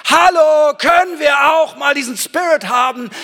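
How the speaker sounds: loud, high revival preaching; preaching at full force. Acted. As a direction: rouse the congregation with a shouted declaration. Preaching opener to the crowd.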